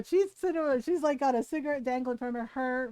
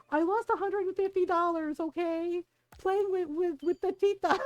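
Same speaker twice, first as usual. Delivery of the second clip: higher, exasperated imitation of cousin; defensive admission; 4 semitones higher than usual. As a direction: own up grudgingly, pitched up. Cousin sheepishly admits his loss.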